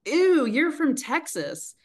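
high, drawn-out mocking "ew"; retold disgust. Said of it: "people would just go like".

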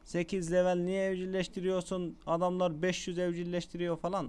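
lightly voiced viewer objection; a hint of a nagging commenter; imitating complaining viewers. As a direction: mimic a questioning audience, slightly lifted. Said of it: "Şimdi diyeceksiniz ya".

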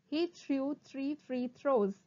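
moderately slow, distinct words; slow tongue twister. Shown as a demonstration. Teacher repeats the twister for students, fairly slowly. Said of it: "first try saying them slowly".

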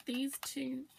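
hiccuping mid-sentence; talking through hiccups. Real, not acted. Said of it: "oh sorry, I've got hiccups".

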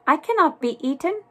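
high, quick objection; alarmed little cookie protest; indignant protest. A narrator's reading. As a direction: blurt it fast, refusing outright. Cookie protests being eaten.

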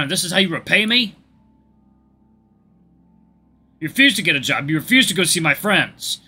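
loud, high angry yell; furious yelling. Acted. Abusive partner screaming at Cody, furious. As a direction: yell at him, full of contempt.

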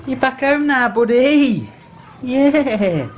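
high doting pet voice; greeting the cat. Real, not acted. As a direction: fuss over the cat, high and slow.

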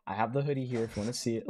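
understated, relaxed merch plug; calm tone. Retold or imitated. Recalling his first merch video, calm tone. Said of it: "like, a really calm tone".

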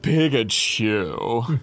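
slow, lazy stoned drawl; stoned Pikachu. Retold or imitated. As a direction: drag out the name, half-baked. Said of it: "and he's like".

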